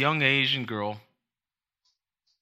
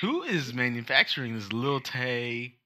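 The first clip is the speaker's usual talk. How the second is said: laughing disbelief; 2 semitones higher, 7 dB louder than usual. Retold or imitated. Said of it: "And I was like".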